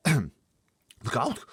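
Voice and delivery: loud high warning cry; BFG crying out. Acted. BFG warning Sophie, crying out. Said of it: "cried the B F G".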